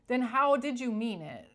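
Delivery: amused and incredulous, laughing it out; laughing retort. Pretend. Mocking the fake apologizer, laughing retort. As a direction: repeat the challenge through a laugh.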